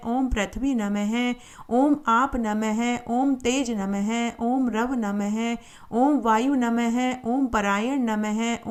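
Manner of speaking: steady, evenly measured litany of names; mantra recitation. Acted. Narrator reciting Surya's hundred and eight names for listeners, measured mantra recitation. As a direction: recite each mantra in the same repeating cadence.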